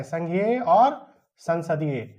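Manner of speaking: slow, soft, each word spaced out; slow dictation. Shown as a demonstration. Teacher dictating the answer slowly to students. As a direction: spell it out slowly for them to memorise. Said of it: "याद रखना है".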